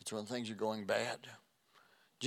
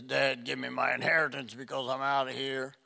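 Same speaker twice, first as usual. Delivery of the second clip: louder, mildly impudent son; brash demand; 5 dB louder than usual. Acted. Prodigal son to his dad before leaving, brash demand. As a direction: demand it from your father, voice raised a little.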